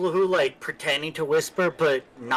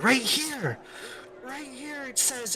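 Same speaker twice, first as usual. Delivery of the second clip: excited; 12 semitones higher, 6 dB quieter than usual. Acted. Excited about the book.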